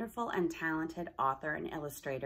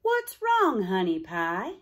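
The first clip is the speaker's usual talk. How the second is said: Rita checking on a sad friend; caring friend; 6 dB louder, slower than usual. Acted. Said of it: "she asked".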